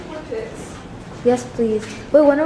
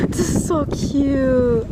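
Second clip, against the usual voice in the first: gushing; 3 dB quieter, much slower than usual. Real, not acted. Admiring the little town.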